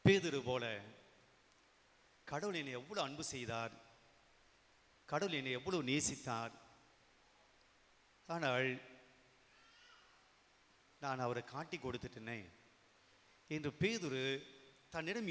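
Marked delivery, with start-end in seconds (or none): 2.3-12.4 soft, remorseful reflection; Peter. Acted. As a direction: lower the volume, rueful and reflective. (மென்மையான, வருந்தும் குரல்)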